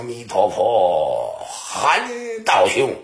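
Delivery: low, slow drawn-out chant rising into the address; intoned monk's invocation. Acted. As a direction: intone it like a monk, stretching every syllable. Monk intones Buddha's name to ally. (低沉拖长地念佛号)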